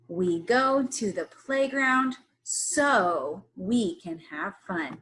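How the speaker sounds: slow choral reading. Shown as a demonstration. Teacher leading children in a slow choral reading. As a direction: lead the class in reading slowly. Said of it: "read this sentence with me".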